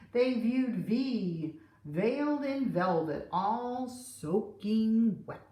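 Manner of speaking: put-on lively read-aloud for kids; gentle storytime narration; storybook reading. A narrator's reading. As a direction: read it like a picture book at story time. Reading the picture book aloud.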